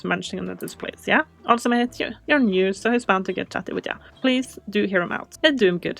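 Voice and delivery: lightly voiced jolly pub cook; cheery cook. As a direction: hand over the parcel with gusto.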